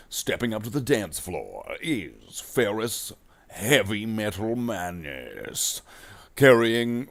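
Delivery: lightly voiced slow gruff announcer; Marine voice. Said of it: "I gotta do this in the Marine voice".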